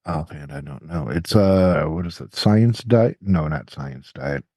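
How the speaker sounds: nose clipped shut; pinching nose. Real, not acted. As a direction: talk with a clip on your nose. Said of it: "I have put a clothespin on my nose".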